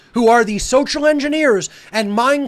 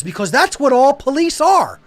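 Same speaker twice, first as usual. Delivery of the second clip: ordinary delivery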